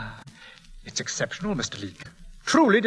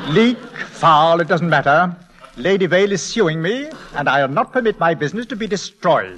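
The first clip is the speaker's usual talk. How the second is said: louder, sharp and exasperated; angry outburst; 4 dB louder than usual. Acted. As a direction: slam the point home, patience gone. Dealer loses patience, threatened lawsuit.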